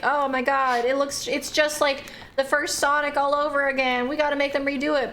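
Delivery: mildly whiny fake outrage; mock outraged fan. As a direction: parody the online whiners, a touch exaggerated. Mocking fans complaining about design.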